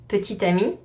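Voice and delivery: petite amie with the final t linked; French pronunciation. Shown as a demonstration. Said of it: "petite at the end".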